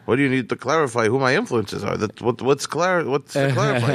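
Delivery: mildly gruff imitation of an irritated comic; lightly voiced annoyed mentor; annoyed comedian. Comedian asked to clarify, mildly annoyed imitation. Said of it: "comedian on the phone".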